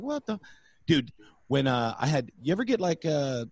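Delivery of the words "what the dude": heckler voice. Retold or imitated. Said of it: "somebody in the back of the room was like".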